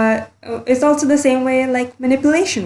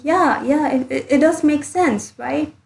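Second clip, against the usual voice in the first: higher, wavering self-persuasion; voicing a convinced victim; 6 semitones higher than usual. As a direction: sound talked into believing it. Victim's inner thought, convinced.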